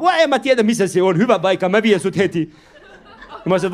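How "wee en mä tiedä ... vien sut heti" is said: imitating a foreign cab driver, slowed; lightly voiced driver asking where to; taxi driver voice. Comedian voicing the taxi driver to the audience, lightly accented.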